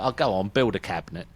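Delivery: loud, friendly jab; jokey British put-down; cheery British insult. Shown as a demonstration. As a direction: say it like friendly banter down the pub. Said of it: "We've got British accents".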